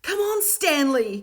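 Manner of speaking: loud, high, slow call; cried out. A narrator's reading. Davina urges Stanley to run after Will, loud and high. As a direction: urge him along, loud. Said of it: "cried Davina".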